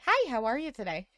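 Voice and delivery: lightly put-on customer service greeting. Shown as a demonstration. Host showing how she greets customers, customer service voice. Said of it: "in my customer service voice".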